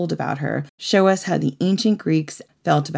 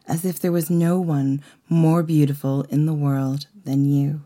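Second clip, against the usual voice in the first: story narration. A narrator's reading. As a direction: read it like a myth to an audience. Mythological story read aloud.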